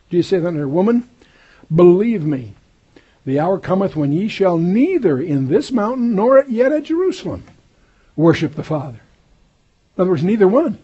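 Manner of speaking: forceful preaching. Acted. Preacher thunders Jesus' words to the woman, loud and rising. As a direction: build the proclamation to its peak.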